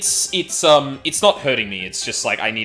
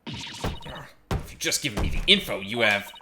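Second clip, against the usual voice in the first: lightly voiced Solid Snake style; a hint of Solid Snake, soldier-like; slower than usual. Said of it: "giving her the Solid Snake voice".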